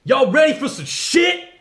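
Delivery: high squeaky clown shout; goofy high cartoon yell; silly clown. Goofy show intro shout.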